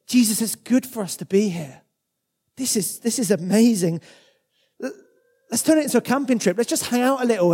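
a hint of an eager Peter; excited Peter. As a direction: gush like Peter, thrilled at the view. Preacher voices Peter on mountain.

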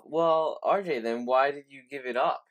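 lightly voiced questioning listener; listener's voice. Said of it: "you're thinking to yourself".

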